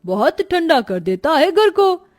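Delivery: lightly voiced show-off friend; a hint of a bragging kid; boastful playmate. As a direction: brag with swooping, lilting pitch.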